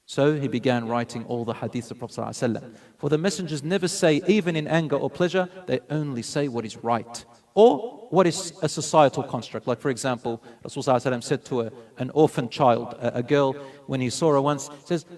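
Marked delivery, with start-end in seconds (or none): none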